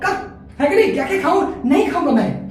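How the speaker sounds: patient sick of medicine, whining no; fed-up whine. Shown as a demonstration. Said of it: "दवा खाते खाते उब गया है".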